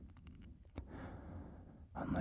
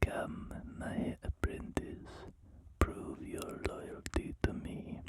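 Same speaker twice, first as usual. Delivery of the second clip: put-on slow whispered Emperor with a drifting foreign accent; lightly menacing Sith master, accent creeping in; weird accent; slower than usual. Emperor demanding loyalty from his apprentice, slow accented whisper. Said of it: "my voice for him keeps drifting into some, like, weird accent".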